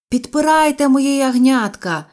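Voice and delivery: yelling. A narrator's reading. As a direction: holler orders to the children over a storm. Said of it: "волав я". (волає, високо й голосно)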